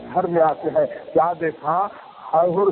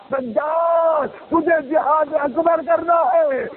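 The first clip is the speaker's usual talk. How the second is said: high, drawn-out cry of the name; impassioned call; 8 semitones higher, slower than usual. Acted. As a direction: call out the name slowly, then command. Husain charges Sajjad, raised voice.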